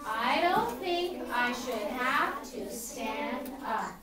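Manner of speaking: slow, measured choral-reading delivery; calm Rosa Parks. Acted. Teacher leads the class in Rosa's reply, calmly. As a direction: lead it calmly, word by drawn-out word. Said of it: "In a quiet call, Rosa Parks Boys".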